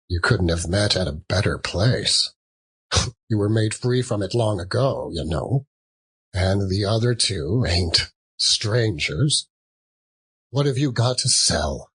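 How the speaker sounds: put-on gruff old Joe chuckling; old man voice.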